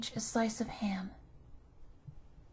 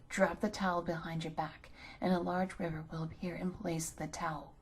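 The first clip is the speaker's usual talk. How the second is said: lower, grave cat; a solemn cat giving escape instructions; serious cat; 3 semitones lower than usual. Acted. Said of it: "very seriously answered the cat".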